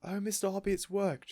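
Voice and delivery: high, loud joy; excited cry. A narrator's reading. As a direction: cry out in delight. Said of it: "she was crying".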